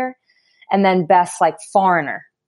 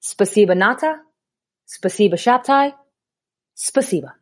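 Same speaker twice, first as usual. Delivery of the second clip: imitating terse thanks. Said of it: "And she goes".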